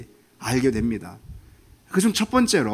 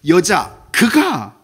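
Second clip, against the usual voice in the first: 여자 그가 very slow and louder, each syllable hit; stress on 여자 그가; 2 semitones higher, 6 dB louder, much slower than usual. Shown as a demonstration. Preacher demonstrating Adam's blame, stressing 여자 그가. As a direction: drag out 여자 그가 with weight. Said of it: "강조하죠".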